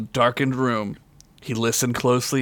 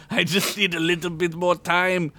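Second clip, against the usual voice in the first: pleading minion; 3 semitones higher than usual. Acted.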